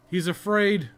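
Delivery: loud, high, delighted taunt; excited jeering cry; gleeful mocking shout. Real, not acted. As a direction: crow over the scared enemy. Mocking a fleeing boss.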